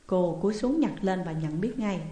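usual speaking voice

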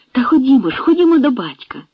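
high, eager urging; an excited call to go now; hurried. A narrator's reading. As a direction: hurry him along, eager. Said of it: "заспішила Янка".

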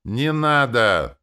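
a loud, slow, drawn-out wail; desperate wail. A narrator's reading. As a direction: cry out to stop him, slow and loud. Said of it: "с воплем".

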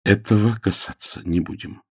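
measured, understated dignity; dignified. Acted. Frederick refuses to discuss it, with dignity. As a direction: close the subject with reserve. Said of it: "с достоинством сказал он".

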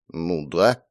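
grumbling. A narrator's reading. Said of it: "буркнул недовольно Акира".

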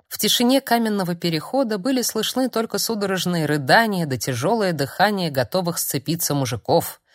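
usual speaking voice

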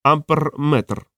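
slow, lightly voiced parrot; a hint of a musing parrot. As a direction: add it thoughtfully, parrot-like. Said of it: "подумав і додав".

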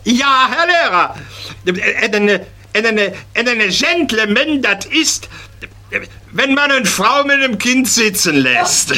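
high, eager schoolboy stammering; boy answering the teacher, high and eager; child's voice. Acted. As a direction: play the proud little pupil.

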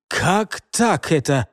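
slow puzzled question; surprised. Acted. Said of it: "удивился старший".

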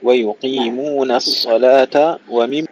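"ويقيمون الصلاة" slowly, the na kept thin before the heavy sad; light nun. Shown as a demonstration. Teacher modelling the verse, "ويقيمون" with light nun. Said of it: "رقق النون".

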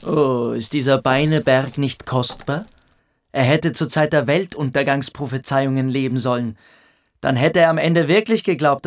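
langsam, genüsslich spottend; leicht höhnisch über Beineberg herziehen; spöttisch. Acted. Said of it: "auf diesen Spott hin". (Reiting verspottet Beineberg vor Törles, langsam und spöttisch)

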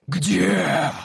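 high strained monster voice; creature rasp. Acted. The creature forces out its question, strained. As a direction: squeeze the word out. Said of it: "выдавило существо".

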